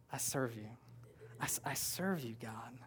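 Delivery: soft, near-whispered devotion; hushed prayer. Acted. Pastor voicing a worshipper's prayer, a hushed whisper. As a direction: breathe it out as a private prayer.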